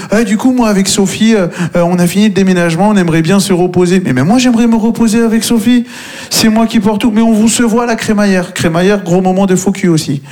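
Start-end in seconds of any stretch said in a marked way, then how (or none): 0.1-4.0 mock smug friend. Friend dismissing helper.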